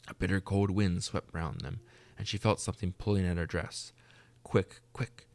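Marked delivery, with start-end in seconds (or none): 4.4-5.3 urgent cry. A narrator's reading. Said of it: "cried the ghost".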